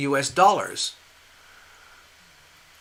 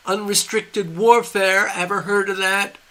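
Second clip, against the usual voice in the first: mocking gloat; 5 semitones higher than usual. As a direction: rub it in, drawing out the words. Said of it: "they're laughing at us and going".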